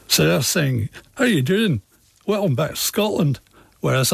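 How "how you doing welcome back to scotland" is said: light imitation of a Scottish accent, pitched higher. Guest imitating Scots across the river, light Scottish accent. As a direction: playfully mimic a Scottish neighbour's greeting in a Scottish accent. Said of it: "talk with a very different accent".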